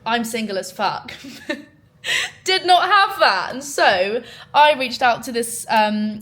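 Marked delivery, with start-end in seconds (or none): 1.5-3.5 laughing. Real, not acted. Laughing at being single.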